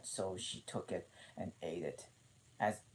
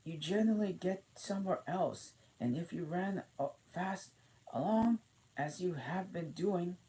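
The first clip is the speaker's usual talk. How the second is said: panting a little; 10 semitones higher than usual. A narrator's reading. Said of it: "still panting a little".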